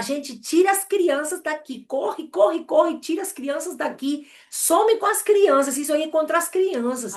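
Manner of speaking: high-pitched alarmed yell, pushing the warning out; retold frantic shouting. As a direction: shout to get the children away, voice climbing high. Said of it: "eu começo a gritar". (grito desesperado, bem agudo, mandando tirar as crianças)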